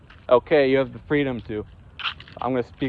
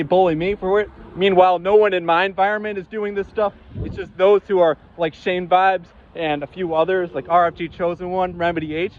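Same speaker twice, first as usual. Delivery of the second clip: furious rant; 4 semitones higher than usual. Real, not acted. Ranting at viewers who bully him, real fury. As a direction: shout them down, fully furious. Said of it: "I'm so furious".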